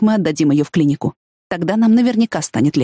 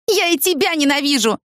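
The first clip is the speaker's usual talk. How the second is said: high wailing cry of hatred; a teen's shrieked outburst, mildly acted; howling hatred; 10 semitones higher than usual. A narrator's reading. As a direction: wail it at him, pitched high. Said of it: "снова взвыла она".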